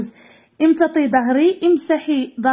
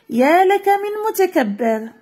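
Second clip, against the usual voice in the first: higher, slow, disdainful rebuke; scornful wind; 5 semitones higher, slower than usual. Acted. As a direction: scold the proud sea slowly and higher. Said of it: "لم يعجب هذا الجواب الريح".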